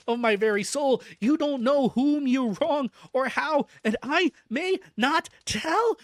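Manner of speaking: loud, high, desperate begging; frantic pleading. Acted. Madman begging the doctor for release, frantic and loud. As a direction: plead to be let out, voice cracking up high. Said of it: "he got into quite a frantic condition".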